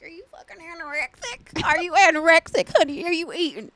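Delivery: mock country accent on a nagging grandma; country-accented grandma interrogation. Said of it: "Why is she country?".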